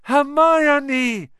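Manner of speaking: high, loud cry of the name; urgent shout. Acted. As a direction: call out in panic together. Both cry out her name.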